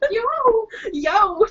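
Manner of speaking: high, excited call; yelling. Acted. Player hailing fellow dreamers, yelling. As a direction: yell out to the others. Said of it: "were yelling".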